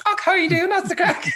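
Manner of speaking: answering back in squeaky falsetto; put-on falsetto chatter; high-pitched voice. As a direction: mirror the high talker, way up in pitch. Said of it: "met someone really high pitched".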